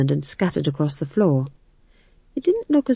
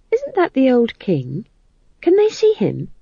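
high worried whispering questions; nervous young witch; anxious young witch; 8 semitones higher than usual. Acted. Magrat anxious.

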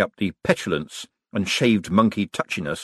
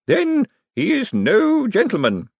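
sad; 4 dB louder, slower than usual. A narrator's reading. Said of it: "the aunt observed sadly".

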